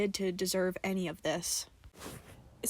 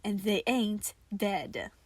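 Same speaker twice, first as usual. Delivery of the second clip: dry; slower than usual. A narrator's reading. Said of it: "in a dry tone".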